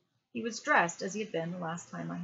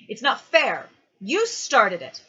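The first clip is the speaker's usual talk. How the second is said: put-on loud, higher childlike complaint; indignant protest; 4 semitones higher, 13 dB louder, slower than usual. A narrator's reading. Boy accusing the dead man, loud indignant protest. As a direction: throw the blame back loudly.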